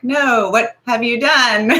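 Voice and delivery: hammed-up dismay; mock dismay. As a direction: act out an appalled fan, stretching the words into a laugh. Acts out a dismayed fan reaction.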